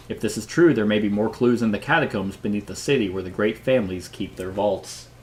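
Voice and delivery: measured read-aloud of game text; story narration. Acted. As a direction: narrate the mystery to the table, clearly projected.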